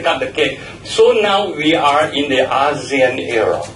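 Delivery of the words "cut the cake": "cut" with an open "ah" vowel; cut as "cat". Shown as a demonstration. Telling listeners what to say, "cut" with open "ah". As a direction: say "cut" as a short "kaht". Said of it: "And then you say".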